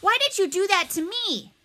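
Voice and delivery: loud, high-pitched outraged protest; crying out. A narrator's reading. Miles playing victim before the whole cafeteria, crying out. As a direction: cry out like the wronged victim. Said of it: "Miles cried out".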